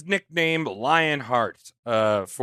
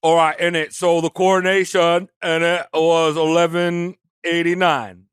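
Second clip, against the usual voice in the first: badly faked British accent, usual pitch. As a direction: attempt a British accent and botch it. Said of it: "That's a really bad accent".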